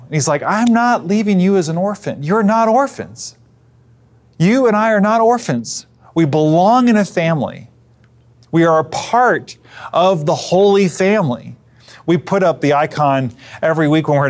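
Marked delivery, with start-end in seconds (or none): 0.4-11.6 higher, earnest reassurance as Jesus; Jesus reassuring. Retold or imitated. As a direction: gently insist they are not orphans. Preacher voices Jesus reassuring disciples.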